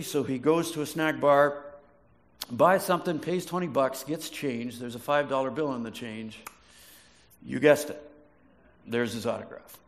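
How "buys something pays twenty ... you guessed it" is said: ordinary delivery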